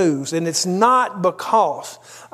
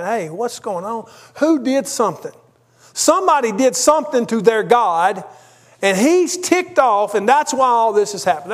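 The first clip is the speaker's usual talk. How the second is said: panicked sailors; 4 semitones higher than usual. Retold or imitated. Preacher voicing sailors panicking about their God. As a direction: blurt it out like scared sailors hunting a culprit.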